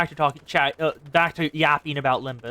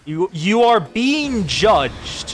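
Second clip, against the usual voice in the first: slow ominous judgment; 4 dB louder, much slower than usual. Acted. Cutscene villain line.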